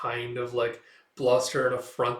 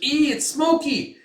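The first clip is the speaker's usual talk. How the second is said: high, slow squeaky cry; a tiny creature pipes up; squeaky little voice; 14 semitones higher, 7 dB louder, slower than usual. Retold or imitated. Small companion coughing in the smoke, high squeak. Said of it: "He's like".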